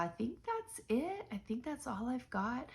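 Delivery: stuffy nose, blocked sinuses; nasal voice. Real, not acted. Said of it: "sorry about the nasally voice".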